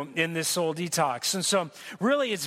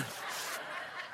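short laugh; 14 dB quieter than usual. Real, not acted. Laughs at his own bit.

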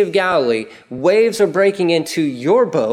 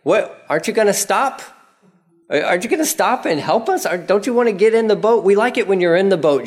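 high, fast whiny pleading; pleading whine; 5 semitones higher, faster than usual. Acted. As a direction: whine at Jesus to stop. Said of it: "And you're like".

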